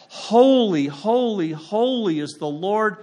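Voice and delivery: mild proclamation of holy; seraphs crying out. Acted. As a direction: call it out like an angel, slowly. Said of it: "and they said".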